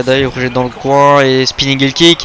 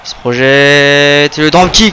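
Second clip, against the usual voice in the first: wrestling commentator; 4 dB louder, slower than usual. Real, not acted. Commentators calling the wrestling action.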